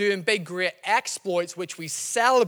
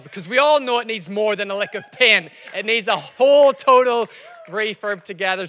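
louder, rallying the room; rousing emphasis; 6 dB louder than usual. Acted. Pastor rallying the church for the refurb, loud and rousing. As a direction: build it up and push the volume.

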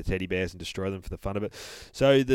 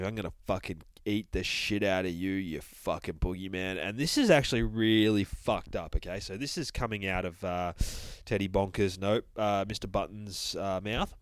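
grim vengeful bear. Acted. Bear's menacing monologue.

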